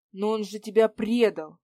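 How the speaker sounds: loud outraged protest; indignant. Acted. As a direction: burst out in indignation. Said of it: "возмутился я".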